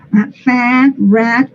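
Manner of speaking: "fat, rat" with a wide æ between A and E; mobster-mouthed æ in "fat, rat"; mafioso vowel. Shown as a demonstration. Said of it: "es el sonido mafioso por excelencia".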